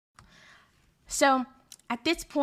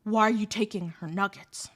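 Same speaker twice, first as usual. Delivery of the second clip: put-on lower, calm, menacing boyfriend; lightly voiced hulking boyfriend, lower and calm; quiet toughness; 5 semitones lower than usual. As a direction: ask it low and quiet, with threat behind it. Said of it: "he's got this quiet toughness".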